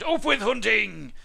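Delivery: high, loud, drawn-out shout; full-voiced hunting cry. A narrator's reading. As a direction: bellow it slowly as a war chant. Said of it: "they shouted".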